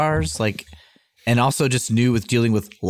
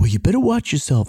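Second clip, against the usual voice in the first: put-on threatening whisper, higher; 4 semitones higher than usual. Retelling what a drunk guy said in the exchange, retelling a whisper. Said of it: "the drunk guy's voice just went down to a whisper".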